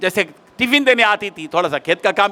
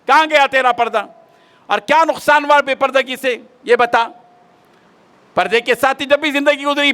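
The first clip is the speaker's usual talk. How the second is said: taunting; 5 semitones higher than usual. Retold or imitated. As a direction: needle her, a sneering taunt. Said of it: "तंज किया उसने". (ताना मारते हुए, ऊँची आवाज़ में)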